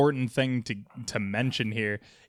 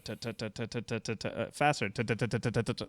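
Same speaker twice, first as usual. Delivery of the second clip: counting out rhythm; 2 semitones lower, 3 dB quieter, faster than usual. Shown as a demonstration. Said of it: "you're gonna start".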